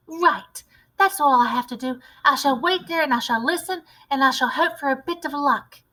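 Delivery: put-on a keen little boy with a clever plan; eager mouse boy. Narrator voices mouse boy.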